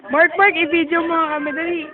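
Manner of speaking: loud, quick call to a friend. Real, not acted. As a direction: shout across the room, urgent. Calling friend to film them.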